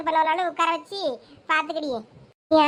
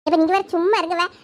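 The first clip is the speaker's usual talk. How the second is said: ordinary talk, nothing marked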